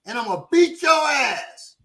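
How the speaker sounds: imitated slow-burning menace; offended threat, retold. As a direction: spell out the threat word by word, like an offended local. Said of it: "he felt disrespected".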